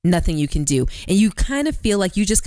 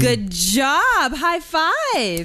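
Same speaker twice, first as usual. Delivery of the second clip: potty training praise; 5 semitones higher, much slower than usual. Real, not acted. Praising child.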